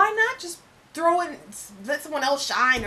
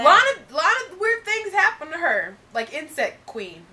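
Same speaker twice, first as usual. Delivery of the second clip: fake British accent; 2 semitones higher, 4 dB louder than usual. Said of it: "we're doing our accents".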